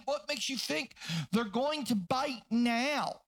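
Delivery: driving pulpit delivery; fervent preaching. Acted. Preaches at full force.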